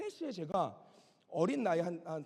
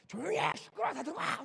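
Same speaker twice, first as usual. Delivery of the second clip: high-pitched acted shout; mock stern scolding shout; imitated father yelling; 7 semitones higher than usual. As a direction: yell to silence a room, imitating a father. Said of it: "막 소리를 지르십니다".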